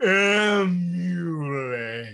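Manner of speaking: emulate stretched syllable by syllable. Showing how to stretch a word: milking the word emulate. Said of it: "milk a word".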